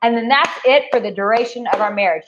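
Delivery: mock wife voice. Imitating a wife offering sex once to her husband, mock sweet. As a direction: imitate a sweet wife making a one-time promise.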